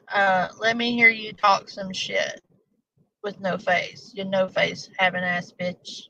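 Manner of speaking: attempted British accent sliding into Valley Girl; badly faked British accent, haughty moose. Haughty moose threatening whoever insulted it, in a bad British accent. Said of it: "horrible rendition of your accent".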